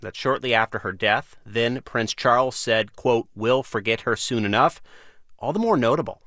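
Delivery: measured radio host read, lively pitch swings; deliberate phrasing with pauses for emphasis; news-magazine intro read. Acted. Host reads scripted introduction.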